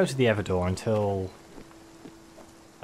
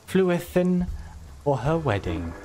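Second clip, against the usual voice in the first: lightly pompous bard, slow and grand; a hint of a boastful minstrel; Wordrick the Bard; slower than usual. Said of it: "I love this character".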